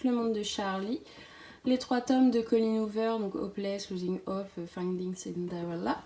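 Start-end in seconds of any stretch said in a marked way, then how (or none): 3.4-6.0 English titles in a low French accent. Real, not acted. Booktuber listing Colleen Hoover titles, in a French-accented English. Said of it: "Super accent anglais".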